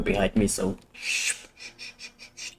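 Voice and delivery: whispered shushing; whisper, don't wake anyone; quiet at night. Real, not acted. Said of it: "I have to be a little more quiet".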